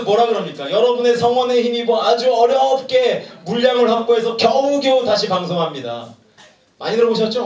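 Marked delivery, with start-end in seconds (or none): 0.7-6.1 mock TV sales pitch; lightly voiced shopping channel host, eager pitch; a hint of a home shopping announcer. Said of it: "홈쇼핑에서".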